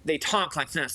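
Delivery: mock the twins' nasal, cutting way of talking; a quick, cutting, nasal sneer at the rich twins; nasal bitchy impression. Guest mocks the snobby twins' talking, nasal bitchy impression. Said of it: "this nasal, cutting, bitchy".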